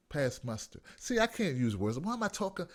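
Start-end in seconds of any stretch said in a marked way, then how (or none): 0.1-0.8 mocking repeat. Shown as a demonstration. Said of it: "I don't wanna talk like damn newscast guy".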